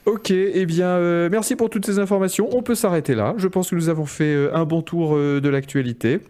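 upbeat show host wrap-up; bright thanks to the guests; host outro. Acted. Host's closing outro. (ton d'animateur qui conclut)

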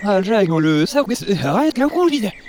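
reversed speech; played backwards. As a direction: talk as if the tape runs backwards. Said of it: "On dirait qu'il parle à l'envers".

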